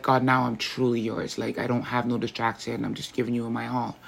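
soft, fading prayer to God; a soft retold prayer that fades away; hushed prayer. Quoted prayer, fading softer.

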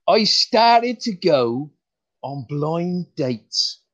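slow, deliberate retake of the line; retelling the joke properly, stretched out; slow joke delivery. Shown as a demonstration. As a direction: stretch the setup, leave a pause for the laugh. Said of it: "let's start that again".

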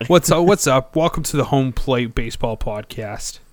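put-on Boston accent. Kicking off a pretend baseball podcast, hammed-up Boston accent. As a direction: open like a Boston radio host with a goofy accent. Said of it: "What is that accent?".

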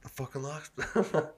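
soft, tentative Boston accent; half-hearted Boston accent, slowly; attempted Boston accent. Shown as a demonstration. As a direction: try out a Boston accent, unsure. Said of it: "I don't know if I can do that accent".

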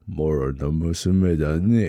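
put-on very slow, drawn-out old boar god; Okkotonushi voice. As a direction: stretch each word like an ancient god. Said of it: "森重久彌すげえなと思って".

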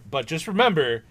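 loud, rising mock-stern warning; parental threat. Frankenstein warning the creature like a scolding parent, loud mock threat. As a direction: threaten like a fed-up mom. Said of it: "Mom, I love you".

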